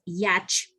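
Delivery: slow English yacht with a y glide. Shown as a demonstration. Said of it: "yate en inglés, que es".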